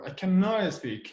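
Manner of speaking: "cannot" given in full, with weight; stress on CANNOT. Shown as a demonstration. Teacher showing the full form, "cannot" emphasised. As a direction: lean on "cannot", then fall on "speak". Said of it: "you show the emphasis on that".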